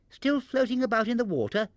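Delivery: high, eager squeak. A narrator's reading. Baby Ted asking Barnaby about the basket, high squeak. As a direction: squeak with surprise. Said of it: "squeaked Baby Ted".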